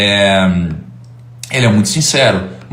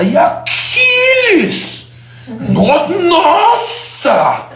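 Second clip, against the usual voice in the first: very high, hugely stretched vowels; hammed-up impression of an impassioned speaker; Clóvis de Barros; much slower than usual. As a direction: sing out each word in theatrical wonder. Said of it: "e ele fala".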